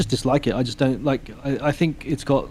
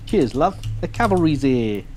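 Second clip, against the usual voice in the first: lightly voiced higher British Tracer line, perky; a hint of a chirpy Tracer callout; Tracer quote; 3 semitones higher, slower than usual. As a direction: gamer quoting Tracer's cheery line in a mild British lilt. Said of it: "that was an Overwatch quote".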